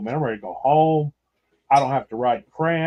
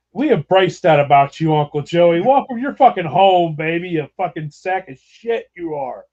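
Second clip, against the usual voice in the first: mock hearty welcome; 4 semitones higher, 5 dB louder than usual. Mock welcoming drunk uncle.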